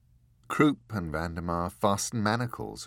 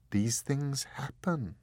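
reasonable; 5 semitones higher, slower than usual. Acted.

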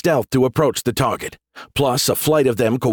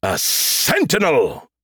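gleeful repeat; 4 semitones higher, much slower than usual. A narrator's reading. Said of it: "Skippy repeated".

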